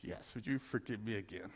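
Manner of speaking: sheepish husband begging again; meek plea. Retold or imitated. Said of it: "I said".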